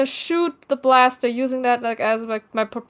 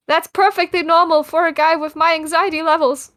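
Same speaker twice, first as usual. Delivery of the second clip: nervous character line; 3 semitones higher than usual. Retold or imitated. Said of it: "I said".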